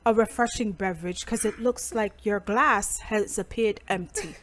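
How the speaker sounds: quiet, slowed mock butler voice; posh British butler. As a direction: play a hushed British butler serving madam. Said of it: "I want a British white man".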